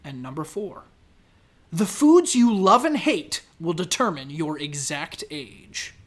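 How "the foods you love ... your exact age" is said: punchy quiz-title read, dropping at the end; headline read. Acted. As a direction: present it like a quiz teaser.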